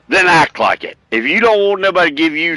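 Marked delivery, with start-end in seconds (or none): 0.1-1.0 higher, punchier repeat with then stressed. Shown as a demonstration. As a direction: hit then, pitched up. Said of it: "Well, then act like it".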